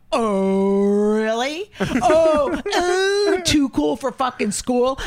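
hammed-up furious comic; mock enraged. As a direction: tear into him, half laughing. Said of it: "I go to him".

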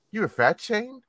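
disbelieving question with a rising end; can't believe what he heard; incredulous. Real, not acted. Incredulous repeat of the complaint.

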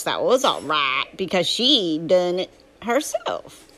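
Huck's southern drawl, telling his story; southern storytelling voice. Acted. Reading Huckleberry Finn aloud to a drowsy listener, southern narration. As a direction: read it as a folksy southern tale.

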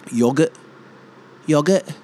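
YOGURT as "YOG-urt"; short O in Yogurt, like "dog"; British pronunciation. Shown as a demonstration. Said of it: "They say yogurt".

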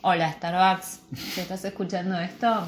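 sultry come-on to a sponsor; flirty seductive voice. Acted. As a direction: purr it like a flirt. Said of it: "¿Por qué ponía la voz de trola?".

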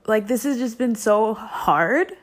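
real upset, close to sobbing; tearful. Real, not acted. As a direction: talk on through the crying. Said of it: "I think I'm gonna cry".

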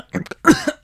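coughing fit. Acted. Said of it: "I had a frog in my throat".

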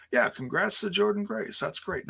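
bright, lifted, upbeat congratulations; excited congrats. Real, not acted. Cheerful congrats.

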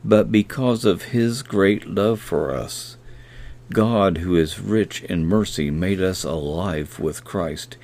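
a measured, reverent reading of the verse; scripture reading. Acted. Preacher reading Hebrews to podcast listeners, reverent. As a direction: read the scripture slowly as prayer.

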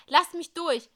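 high, loud demand; urgent shout. Acted. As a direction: force your way through. Isa pushes past police. (lauter, drängender Ruf)

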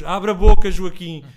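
desperate plea. Retold or imitated. Exhausted father begging his son to open his mouth, loud desperate plea.

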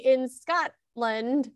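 Scotland said haltingly, with a careful pause; stretched-out, cautious SCOTLAND; hesitant, odd Scotland. Real, not acted. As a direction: pause and pick your way through the word Scotland. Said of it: "saying the word Scotland so weird".

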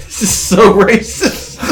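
breaking up laughing mid-sentence; giggling through the words. Real, not acted. Laughing at their own joke, giggling. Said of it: "Power through it".

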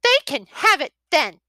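put-on high, loud pouting child; a sulking little girl talking back; high sulky young dragon girl. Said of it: "Sammy Joe said sulkily".

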